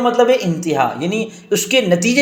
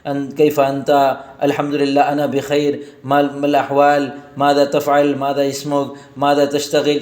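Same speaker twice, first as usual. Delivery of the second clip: sample Arabic small talk; 4 semitones lower than usual. Shown as a demonstration. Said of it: "جب آپ عربی میں بات چیت کریں گے".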